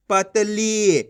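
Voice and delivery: पतली with a long final ली; teacher blending पतली, last vowel held and falling; stretched long ee. Shown as a demonstration. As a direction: draw out the ee ending पतली. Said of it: "खींच के पढ़ा जाता है".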